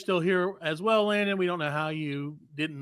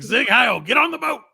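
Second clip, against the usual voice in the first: mock dog voice; 6 semitones higher, 5 dB louder than usual. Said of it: "It's like".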